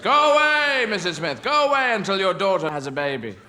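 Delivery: mock shout of go away; shooing her away. Rejecting Missus Smith.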